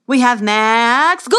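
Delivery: loud announcement to the crowd; herald's announcement. Acted. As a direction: present the champion to the stands.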